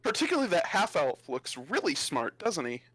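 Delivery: lightly voiced mocking bard; a touch of theatrical sarcasm; sardonic travelling bard. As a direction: needle the young adventurers, pitch lifting at first.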